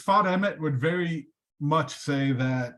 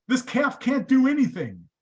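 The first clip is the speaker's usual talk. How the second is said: louder and higher, God at the end of his patience; God exasperated; 10 semitones higher, 5 dB louder than usual. Retold or imitated. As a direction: blurt out "this calf can't do anything" in disbelief. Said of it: "God looks back".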